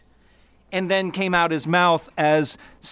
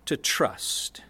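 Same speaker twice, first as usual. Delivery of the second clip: whispered; 5 semitones lower, 6 dB quieter than usual. Acted. Pastor stresses key word.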